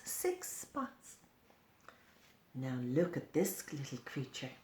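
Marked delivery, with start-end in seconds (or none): 0.0-1.2 whisper. Acted. Counting with child.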